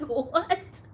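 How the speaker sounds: high incredulous yelp, quoted; retold disbelief. Collector retelling her reply to a gifter, high mock bafflement. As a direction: re-enact a baffled, high question. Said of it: "I was like".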